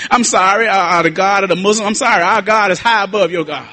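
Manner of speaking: rhythmic refrain, building in pitch; fervent preaching. Real, not acted. Preacher setting his God above all others, fervent preaching. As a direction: drive each repeated line home like a preacher.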